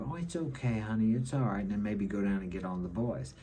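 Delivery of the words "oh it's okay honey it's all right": imitated soothing mother. Mother picking up her crying boy, imitated soothing. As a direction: lightly mimic a mother cooing reassurance. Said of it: "a mother would pick that boy up".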